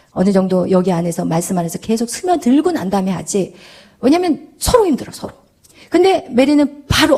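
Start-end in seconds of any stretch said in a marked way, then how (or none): none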